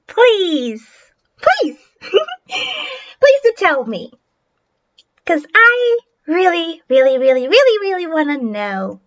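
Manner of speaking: slow, drawn-out fake sympathy; syrupy bully's pleading, swooping in pitch; mocking taunt. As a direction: stretch the words out to toy with a scared child. Bully taunts a scared child.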